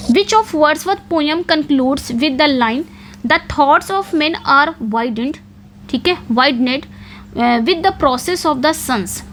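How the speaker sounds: reading the question out very slowly; slow, careful question read; slow dictation. Shown as a demonstration. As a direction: spell out every word for students to note down. Reads question and quoted line.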